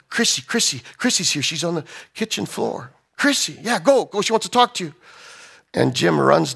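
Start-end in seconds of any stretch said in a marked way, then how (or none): 0.1-4.9 higher, hurried news from a wife; acted breathless urgency. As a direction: urge him to go, mildly frantic. Wife announces daughter's return.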